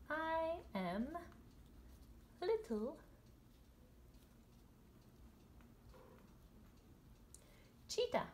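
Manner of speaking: high, slow cartoon cub voice; cheetah voice. Illustrator lets the drawn cheetah introduce himself, high and slow. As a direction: pipe it up like a proud little cheetah. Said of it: "Maybe he could say".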